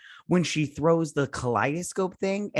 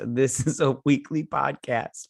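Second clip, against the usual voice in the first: tipsy, slow and slurring. Real, not acted. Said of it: "I'm so drunk right now".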